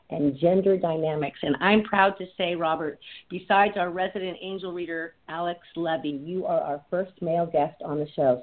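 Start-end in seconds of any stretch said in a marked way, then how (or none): 1.4-8.4 muffled line. Real, not acted. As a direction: voice dulled as if through cloth. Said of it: "sorry if this is sounding muffled".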